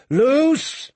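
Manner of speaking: high-pitched battle cry; shouted command. A narrator's reading. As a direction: release the volley with a high shout. Commander orders the volley.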